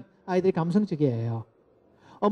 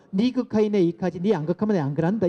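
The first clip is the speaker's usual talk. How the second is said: Gyeongsang dialect. Shown as a demonstration. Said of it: "경상도 말로 하면요".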